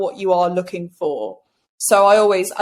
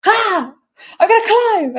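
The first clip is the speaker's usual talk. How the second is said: high, laughing monkey-mind voice; cheeky monkey; 9 semitones higher than usual. Retold or imitated. The mind's monkey refusing to back down, high laughing cheeky voice. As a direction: squeak it like a naughty monkey climbing. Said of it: "The monkey goes".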